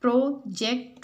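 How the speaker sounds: "प्रोजेक्ट" in two separated beats; syllable by syllable. Shown as a demonstration. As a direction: break "प्रोजेक्ट" into pro-ject. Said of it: "divide the given word into their syllables". ("प्रोजेक्ट" को दो हिस्सों में तोड़कर)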